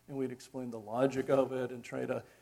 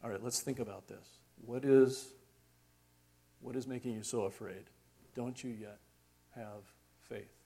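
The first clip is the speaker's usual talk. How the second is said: Jesus. Acted. Jesus looking in our face, calm and patient. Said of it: "I hope you can hear him that way".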